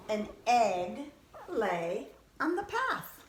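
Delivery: expressive, animated picture-book reading; bedtime story narration. Acted. Reading a bedtime picture book to children, animated narration. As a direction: read it with big swings of tune for children.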